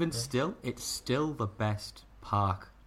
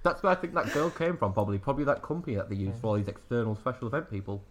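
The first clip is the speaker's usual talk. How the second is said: mouth full; faster than usual. Real, not acted. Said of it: "stop talking with your mouth full".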